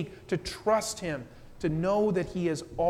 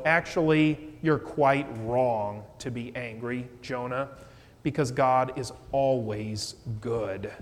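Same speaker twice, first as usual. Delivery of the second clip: lower, gentle reassurance; loving correction; 4 semitones lower than usual. Retold or imitated. God gently telling angry Jonah he is wrong, lower and tender. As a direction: set him straight kindly. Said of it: "But God lovingly lets Jonah know".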